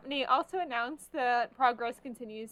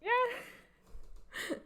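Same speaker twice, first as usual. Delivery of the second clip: high, drawn-out thrilled yeah; long excited yeah; 12 semitones higher than usual. Retold or imitated. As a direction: stretch it out, giddy and high. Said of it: "I went".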